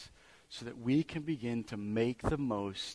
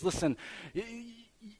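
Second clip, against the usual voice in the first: tempting voice; 11 semitones higher than usual. Retold or imitated.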